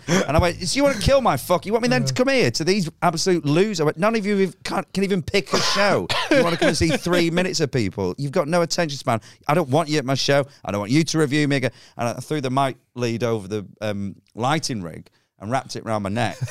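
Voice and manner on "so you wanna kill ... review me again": shouted high at the Chortle reviewer, hammed up; mock furious rant. Comic on stage yelling at the review site, mock fury. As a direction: rip into the website like a wounded comic. Ranting at audience, high and loud.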